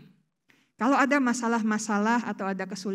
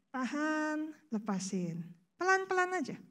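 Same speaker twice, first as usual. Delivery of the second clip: softer hold and release; soft breathing cue; 4 semitones higher, 7 dB quieter than usual. Shown as a demonstration. Preacher gently talks the congregation through a breath. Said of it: "narik nafas lagi".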